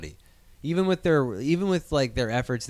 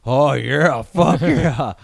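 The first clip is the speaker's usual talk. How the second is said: mock cheer; 5 dB louder, much slower than usual. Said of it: "I'm gonna be like".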